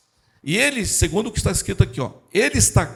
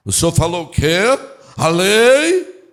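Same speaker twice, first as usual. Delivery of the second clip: louder, rising incredulous question; eager show-off; 6 dB louder than usual. Acted. Law expert seeing his turn to shine, eager rising voice. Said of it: "aí ele pensou".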